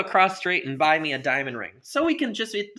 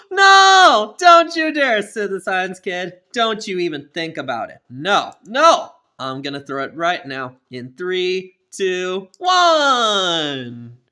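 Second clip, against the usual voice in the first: loud, high bratty outburst; defiant kid yelling; 3 semitones higher, 9 dB louder, slower than usual. Acted. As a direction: yell a countdown threat. Kid threatening a tantrum.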